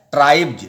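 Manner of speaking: ट्राइब्स with a buzzing voiced ending, like ट्राइब्ज; final s as j. Shown as a demonstration. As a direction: end ट्राइब्स on a voiced j sound, "tribe-j". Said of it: "तो जौ होगा".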